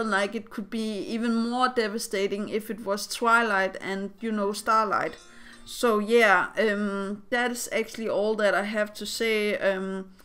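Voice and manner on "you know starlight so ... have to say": alarm going off in background; talking over a beeping alarm; alarm beeping behind. Real, not acted. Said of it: "sorry about the alarm going off".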